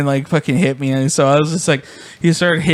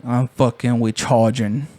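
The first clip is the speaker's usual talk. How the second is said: put-on slow, low mumbling kid; 4 semitones lower, slower than usual. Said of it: "He's like".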